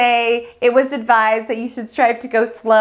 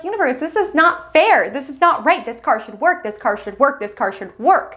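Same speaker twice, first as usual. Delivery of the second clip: mock frustration; 3 semitones higher than usual. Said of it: "And you're so frustrated".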